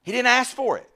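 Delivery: high, loud burst of astonishment; amazed exclamation. Real, not acted. Preacher marvelling at an unasked gift from God, amazed shout.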